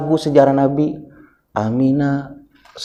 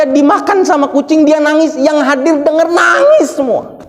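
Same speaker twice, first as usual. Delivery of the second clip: higher, emphatic storytelling from the pulpit; preaching; 8 semitones higher, 4 dB louder than usual. Acted. Preacher retelling how everyone listening wept, emphatic preaching. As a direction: drive the story home to the congregation.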